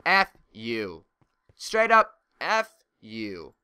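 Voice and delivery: loud, furious swear, pitch jumping; angry outburst. Real, not acted. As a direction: lash out at the askers. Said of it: "That just makes me so angry".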